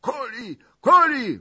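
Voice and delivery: high falling shout; cossacks shouting. Acted. Cossacks shouting for the kill, high. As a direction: call it out as a mob. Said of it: "wolali molojcy".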